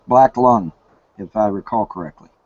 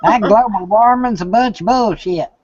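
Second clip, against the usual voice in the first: mock a Kentucky redneck brushing off global warming; redneck accent; 9 semitones higher, 4 dB louder than usual. Friend jokes back, mocking rednecks on global warming, in a hammed-up redneck accent. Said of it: "all those rednecks going".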